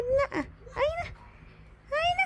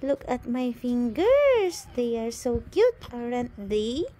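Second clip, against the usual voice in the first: voicing the baby; 8 semitones lower than usual. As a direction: show off the fingers as the baby. Voicing baby showing his fingers.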